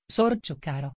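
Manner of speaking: richiamo dolce e più sommesso; soave. A narrator's reading. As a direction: chiamalo con dolcezza. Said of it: "con un soave tuono di voce". (un soave richiamo al topo)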